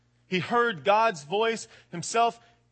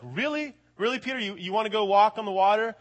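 incredulous; 3 semitones higher, 3 dB louder than usual. Retold or imitated. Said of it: "imagine the other disciples".

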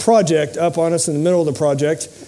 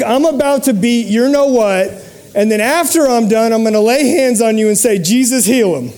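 loud, high mock threat; mock rage at the client, laughing at the end; mock fury; 4 semitones higher, 4 dB louder than usual. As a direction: play at raging, then laugh.

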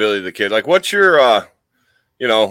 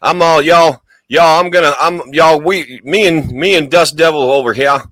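raised, hammed-up Southern twang; put-on Southern accent; 4 semitones higher, 3 dB louder than usual. Host introducing himself and his sidekick, mock Southern accent. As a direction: lay on a rough cowboy Southern accent. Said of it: "I have a terrible South".

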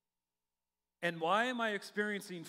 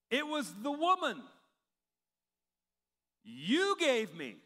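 mock whiny blame; 5 semitones higher, 4 dB louder than usual. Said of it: "The man replied".

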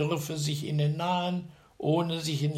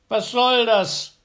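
loud, much higher, slow call; indignant giant cry; 10 semitones higher, 11 dB louder than usual. A narrator's reading. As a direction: woken by a stone, outraged. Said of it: "rief der andere".

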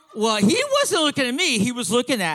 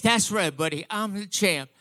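Muhammad Ali; 6 semitones lower than usual. Retold or imitated. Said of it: "and he said".

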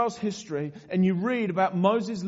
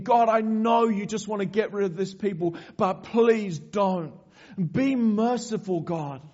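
pleading. Retold or imitated.

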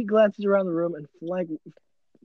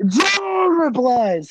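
laughing; 8 semitones higher, 6 dB louder, much slower than usual. Real, not acted. Reader breaks up laughing.

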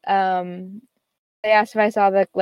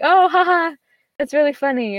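higher, louder fake laugh at the joke; mock laugh; 7 semitones higher, 3 dB louder than usual. Friend laughing off her car story, higher mock laugh. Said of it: "He was like".

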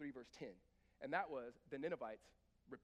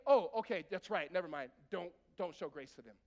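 mock offhand God; 10 dB louder than usual. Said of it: "did God not say".

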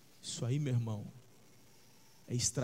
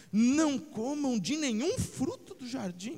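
sly, sneering serpent voice, higher; disdainful serpent; 9 semitones higher than usual. Retold or imitated. Preacher voicing the serpent's disdain to Eva, sneering. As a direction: drip with disdain as the tempter. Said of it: "o desdém na entonação de voz da serpente".

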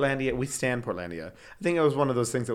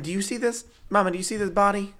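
show-off high voice; 8 semitones higher than usual. Pretend. Showing off her body.

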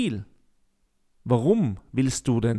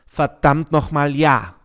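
emphatic; 5 dB louder than usual. Real, not acted. Emphatic answer to own question.

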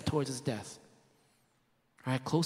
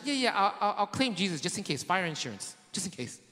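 higher, chuckling offhand yeahs; mock offhand; 4 semitones higher than usual. Preacher imitating a "Christian light" believer, chuckling mock offhand. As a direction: shrug off faith as insurance.

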